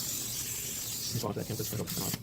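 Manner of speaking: slow soft whisper. Real, not acted. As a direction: whisper it slowly. Quiet instruction during procedure.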